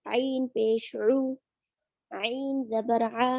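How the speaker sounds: slow, careful drill of the throat sound in "आइन ज़बर आ"; pressed throat ain. Shown as a demonstration. Teacher slowly modelling the throat sound for students. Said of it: "हाथ रखेंगे और अंदर की तरफ press करेंगे".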